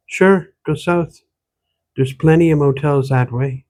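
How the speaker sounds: light Irish lilt mixed with Ottawa Valley; old country woman with an Irish-Ontario accent; a hint of an Irish-Valley accent; Irish-tinged rural Ontario accent. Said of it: "The accent she spoke with".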